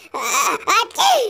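high sneeze into a groan. Acted. Doraemon sneezing while lost. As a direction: let a sneeze burst out. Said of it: "Kok jadi bersin-bersin gini?".

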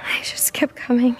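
hushed, trembling disbelief; shaken whisper. Acted. Whispering in shock after the attack.

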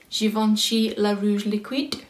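brand name said slowly in a playful French accent. Real, not acted. Vlogger reading the lipstick name, in a light French accent. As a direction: give the product name a mock French accent. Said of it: "Don't know why I did that with a French accent".

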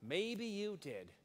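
slow, soft, sympathetic; a soft, slow maybe you did; gentle conceding. Shown as a demonstration. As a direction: concede it kindly, slowly. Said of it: "repeated sympathetic take".

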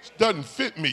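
put-on high, loud cry of the boy David; David protesting. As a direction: play David pulling off the armor. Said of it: "he said".

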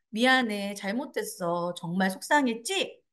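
low, slow, gentle sorry; sincere apology. Shown as a demonstration. Parent to an upset child, sincere and gentle. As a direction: apologize tenderly, acknowledging the hurt. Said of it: "이거 말고".

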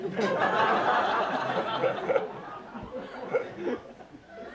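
loud breathy burst of laughter; big laugh. Real, not acted. Comic laughing hard at his own red-hot poker joke. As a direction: crack up at your own joke.

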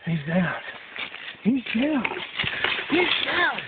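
building from calm to thrilled; rising excitement. Real, not acted. Repeating the kill, rising each time.

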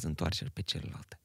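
whispered, soft and reverent; hushed quote. Real, not acted. A whisper while quoting Jesus to Rodica. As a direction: let the quote fall into a whisper.

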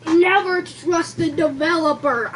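slow words through a mouthful; chewing while talking; mouth full. Real, not acted. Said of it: "talking with their mouth full of blueberry muffin".

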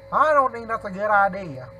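slight redneck twang; redneck accent. Real, not acted. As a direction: let a little redneck accent slip in. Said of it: "I sound like a redneck".

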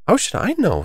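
high-pitched, cheeky comeback; plucky retort; bold retort. A narrator's reading. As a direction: toss it back boldly, pitched high. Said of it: "surprised at her own courage".

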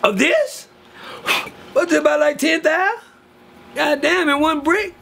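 high, gawking voice of a greedy relative; acting out relatives gasping at hidden money. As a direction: squeal over the cash like a greedy cousin. Relatives finding old money.

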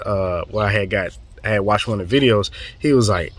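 ordinary talk

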